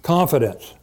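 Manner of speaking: ordinary talk, nothing marked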